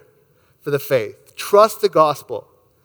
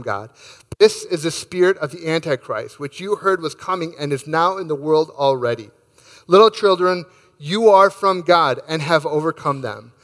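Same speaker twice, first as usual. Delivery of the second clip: scripture reading. Acted. Pastor reading scripture to the congregation, reverent and measured. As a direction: read the verses with reverent care. Pastor reads First John aloud.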